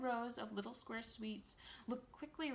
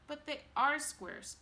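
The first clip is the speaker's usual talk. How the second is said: higher, louder and slow exasperated cry; cried out; 7 semitones higher, 7 dB louder, slower than usual. A narrator's reading. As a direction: cry out the obvious point. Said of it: "cried Mister Wonka".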